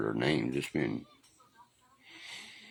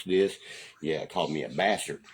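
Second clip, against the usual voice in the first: ordinary talk, nothing marked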